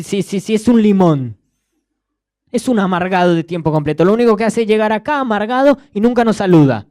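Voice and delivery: a classmate scornfully judging the crying student, loud and mocking; scornful rant. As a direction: sneer it out like a self-righteous gossip. Classmate mocks the sad student.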